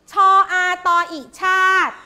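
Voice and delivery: level chant, sound by sound; spelling drill. Shown as a demonstration. Teacher leading pupils through the next word, chanted spelling. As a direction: intone the letters, then the whole word. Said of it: "อ่านคำนี้ค่ะ".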